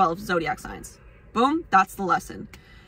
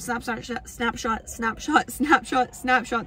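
tongue-twisted repeats; 4 semitones higher than usual. Real, not acted. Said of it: "That was really hard to say".

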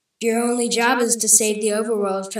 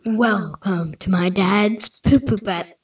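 mock radio intro; 2 semitones lower, slower than usual. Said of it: "repeat after me".

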